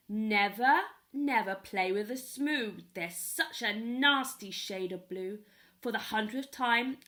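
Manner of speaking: put-on loud, scolding old man; angry grandfather. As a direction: shake your fist and scold the kids. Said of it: "shaking his fists angrily".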